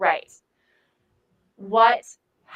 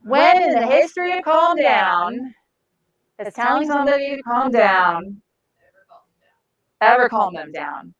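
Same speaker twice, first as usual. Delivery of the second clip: exasperated; 2 semitones higher, 4 dB louder than usual. Real, not acted. Exasperated rhetorical question about calming down.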